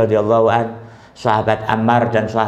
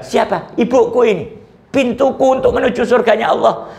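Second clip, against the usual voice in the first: higher, fervent voice of a mourning son; grieving son; 5 semitones higher than usual. Acted. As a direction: pour out grief over the lost gates of heaven. Grieving tabi'in explains his tears. (anak yang berduka dengan suara tinggi bersemangat)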